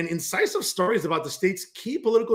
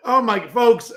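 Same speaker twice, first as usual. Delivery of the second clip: normal talking voice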